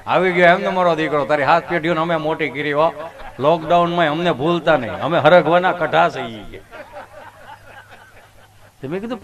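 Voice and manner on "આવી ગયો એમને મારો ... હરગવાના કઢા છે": grinning drumstick pod. Retold or imitated. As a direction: gloat like a vegetable that outlived the lockdown. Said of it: "હરકો મારી સામું દાંત કાઢતો". (ઠેકડી કરતો સરગવો, મોટા અવાજે)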